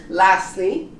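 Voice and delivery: lastly as "lasly", rising at the end; silent T. Shown as a demonstration. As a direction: drop the T in lastly, tune up. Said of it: "we don't pronounce the T".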